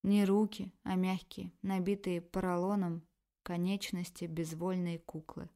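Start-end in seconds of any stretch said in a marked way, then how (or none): none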